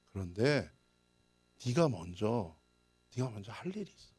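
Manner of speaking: normal talking voice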